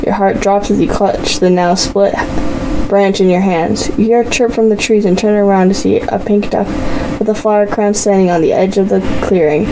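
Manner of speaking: bright, even storyteller read; story narration. A narrator's reading. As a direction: read the story to your viewers. Reads interactive story narration.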